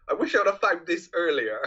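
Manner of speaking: hushed, voiceless whisper; whispered quote. Retold or imitated. Retelling Withnail's line about the shotgun, whispered. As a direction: breathe it out as a whisper.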